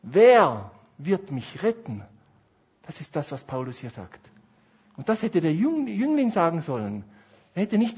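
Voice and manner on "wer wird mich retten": slow, drawn-out plea for rescue; slow pleading question. Acted. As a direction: ask it slowly, like a last hope. (langsam, flehende Frage)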